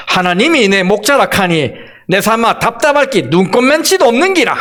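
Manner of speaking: 가볍게 흉내 낸 경상도 사투리; 서울 사람이 어색하게 읽는 경상도 말투; Gyeongsang dialect. Shown as a demonstration. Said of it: "경상도 버전으로 읽어보겠습니다". (경상도 사투리로 살짝 흉내 내어)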